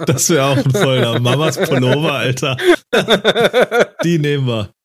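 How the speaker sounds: laughing. Real, not acted. Laughing over a funny name.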